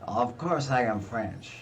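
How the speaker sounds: slow, hammed-up Monty Python French accent; silly put-on French accent; bad French accent. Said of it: "I learned my French accent by watching Monty Python".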